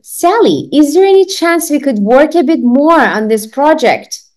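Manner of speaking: teacher acting out Ben in a dialogue; playing Ben. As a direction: voice Ben asking a favour. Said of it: "I am Ben".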